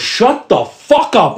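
slow, high, drawn-out mock fury; retold angry outburst. Nurse shuts up the screaming counter lady, mock anger. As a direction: stretch out each word to silence her. Woman snaps back at yelling lady.

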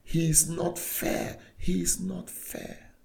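high, slow anguished cry; retold scream. The atheist student at the cafe, crying out against God. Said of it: "banged the table and screamed".

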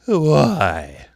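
high, loud curt caterpillar. A narrator's reading. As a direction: bark a curt why. Caterpillar voiced in story.

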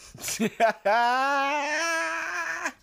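high, loud burst of laughter; loud laughing outburst. Real, not acted. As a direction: crack up loudly. Reacting to the yes or no question.

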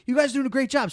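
high, loud imitation of hearty praise. Big shot tipping the food runners, hearty imitation. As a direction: play the big spender praising staff.

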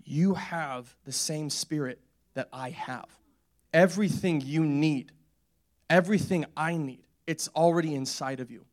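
slow, deliberate, weighted phrases; solemn assurance. Retold or imitated. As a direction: imitate a pastor earnestly reassuring, phrase by phrase. Pastor's solemn assurance retold.

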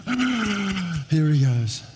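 mock bored congregation. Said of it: "everyone goes".

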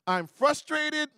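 slow, high, drawn-out exasperation; mock weary frustration; acted frustration. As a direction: stretch it out, playing fed up. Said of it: "I'm tired now".

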